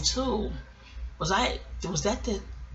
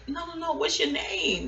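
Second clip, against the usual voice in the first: insistent; 9 semitones higher, 4 dB quieter than usual. Retold or imitated. Retold insisting on her first name.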